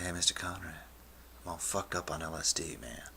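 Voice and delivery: low, soft, sinking mumble; stoned confession. Retold or imitated. Tripping student confiding in counselor, low soft stoned voice. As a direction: let it sag low and quiet.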